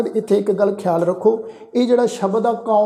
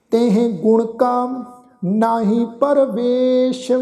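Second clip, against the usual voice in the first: slow, drawn-out scripture chant; slow devotional recitation of the verse; 3 semitones higher, slower than usual. Shown as a demonstration. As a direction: recite each word slowly and reverently.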